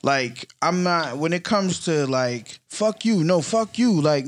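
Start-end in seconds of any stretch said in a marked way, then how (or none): 2.7-4.0 higher-pitched mock squabble; argumentative back-and-forth. Imitating two people in a pointless argument, mildly combative. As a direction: trade insults in a lightly acted quarrel. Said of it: "debating and being argumentative".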